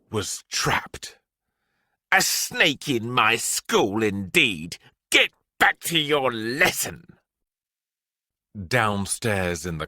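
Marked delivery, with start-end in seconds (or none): 2.1-7.1 stern, huffy headmistress order; scolding headmistress. Acted. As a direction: dismiss the girl sharply.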